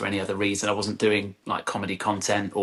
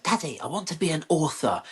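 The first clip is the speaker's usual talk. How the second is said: put-on higher-pitched child voice; young son; 6 semitones higher than usual. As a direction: imitate a little boy, pitched up. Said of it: "he was like".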